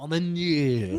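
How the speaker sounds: drawn-out mock French pronunciation; mock French accent. Saying the designer's French name, mock French accent. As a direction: stretch the name in hammy French. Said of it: "He's French".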